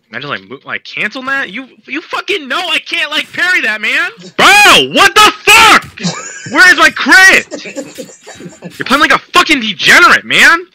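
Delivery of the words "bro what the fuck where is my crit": raging gamer. Real, not acted. Outburst after missing crit.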